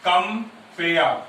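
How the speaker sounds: "compare" loud, split as com, pare; counting syllables. Shown as a demonstration. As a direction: break "compare" into two separate beats. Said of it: "ये one syllable".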